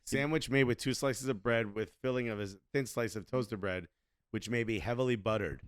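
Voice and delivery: measured, subdued recital; reading aloud. Real, not acted. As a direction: read it out quietly and evenly, like a dictionary entry. Reads out a sandwich definition.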